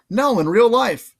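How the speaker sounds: high, slow put-on voice; character voice. Kid answering Percy in a high put-on voice. Character quote in read story.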